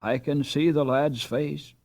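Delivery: slow, groping words; speaking very slowly. A narrator's reading. Ralph to his wife, slowly recalling the lost name. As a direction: drag each word out, searching memory. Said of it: "speaking very slowly".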